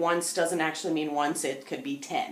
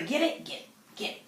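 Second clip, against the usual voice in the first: urging the dog; 6 semitones higher, 5 dB quieter than usual. Real, not acted.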